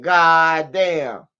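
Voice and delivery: stunned retold exclamation; mock disbelief. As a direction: react like you can't believe it. His own reaction, retold.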